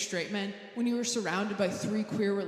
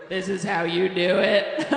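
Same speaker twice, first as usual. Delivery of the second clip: mocking challenge; 4 semitones lower, 10 dB louder, slower than usual. Acted mocking challenge to a date.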